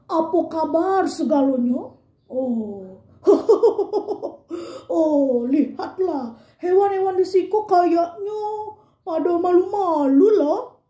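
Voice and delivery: mild big-animal voice from the belly; big elephant voice. Acted. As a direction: play the elephant with a mildly big, pushed-from-the-belly voice. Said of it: "kata gajah".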